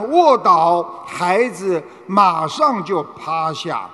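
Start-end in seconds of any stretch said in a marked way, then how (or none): 0.1-0.8 shouted command. Retold or imitated. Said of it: "父亲只要一喊".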